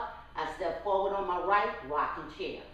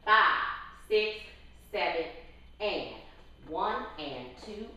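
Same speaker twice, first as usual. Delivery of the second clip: counting out the beats. Shown as a demonstration. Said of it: "Now let's go through it".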